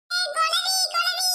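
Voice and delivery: alarmed wasp warning. Acted. Boy spots a wasp.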